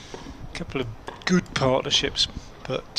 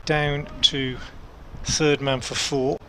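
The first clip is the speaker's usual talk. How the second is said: excited commentary; 2 semitones higher, 3 dB louder, slower than usual. Real, not acted. Edge flies past slip for four.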